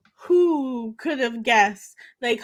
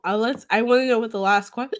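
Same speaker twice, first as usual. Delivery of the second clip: talking with hiccups; faster than usual. Real, not acted. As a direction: hiccup breaks the word off. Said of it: "I have the hiccups".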